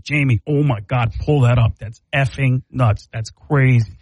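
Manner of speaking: amazed podcast host; Joe Rogan. Retold or imitated. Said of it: "it becomes Joe Rogan".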